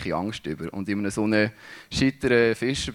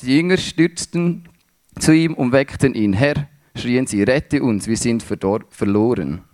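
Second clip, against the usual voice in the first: scripture reading; 6 dB louder than usual. Acted. Reads Gospel passage aloud.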